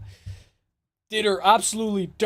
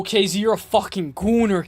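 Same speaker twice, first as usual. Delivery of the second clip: ordinary talk, nothing marked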